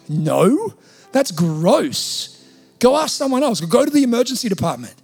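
loud, incredulous mock disgust; grossed-out refusal. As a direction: refuse loudly, as a repulsed party guest. Party guests refuse, disgusted.

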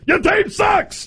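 jeering shout. Acted. Memo to Dan Campbell.

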